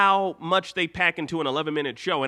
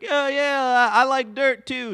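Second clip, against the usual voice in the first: higher, eager playing along; mock Steven voice; 7 semitones higher, 3 dB louder than usual. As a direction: Steven humoring Ruby.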